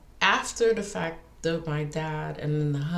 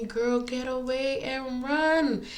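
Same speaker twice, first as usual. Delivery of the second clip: inner warning voice; 7 semitones higher, slower than usual. Retold or imitated. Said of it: "my body telling me".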